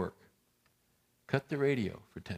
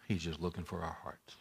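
tender; 6 semitones lower, 10 dB quieter than usual. Real, not acted. Softened key line.

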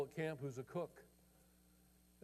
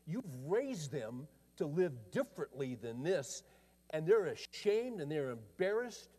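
higher and urgent, pleading rebuke; pressing confrontation; 4 semitones higher than usual. Retold or imitated. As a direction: press him hard about his family. Pastor confronting the man.

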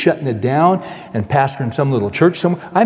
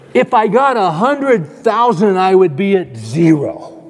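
laughing through it; 5 semitones higher, slower than usual. Acted. Laughing at his own joke.

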